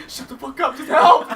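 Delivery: high shout breaking into laughter, peaking on "help"; acted desperate yell. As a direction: yell back in mock desperation. Acts yelling back at friend while drowning.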